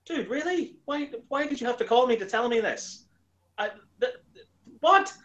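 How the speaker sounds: can't believe she called for this; squeaky, fed-up why did you call me; exasperated disbelief. Retold or imitated. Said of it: "And it's like".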